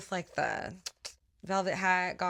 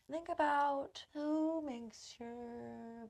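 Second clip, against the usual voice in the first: sultry storytelling for a daydream exercise; playful, lingering guided-fantasy voice; mock guided visualization; 3 semitones higher than usual. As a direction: lead them into a romantic fantasy, drawing words out. Leads eyes-closed fantasy exercise.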